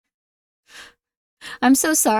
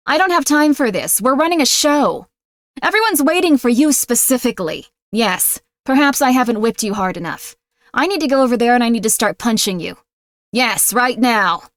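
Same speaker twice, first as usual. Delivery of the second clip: mock stern boss. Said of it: "I'm doing a voice".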